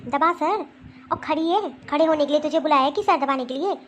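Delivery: loud scolding mother-in-law. Acted. Mother-in-law scolds daughter-in-law for standing idle, loud scolding. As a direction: snap orders at the bride.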